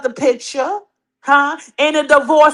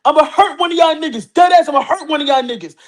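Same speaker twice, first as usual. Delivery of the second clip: pretend Pat; 2 semitones higher, faster than usual. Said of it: "I wanna hear Pat be like".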